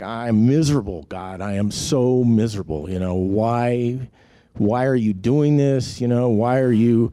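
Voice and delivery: mild mock yell of complaint; retold screaming at God. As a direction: plead with God, drawing out the whys. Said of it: "I'm just screaming at him".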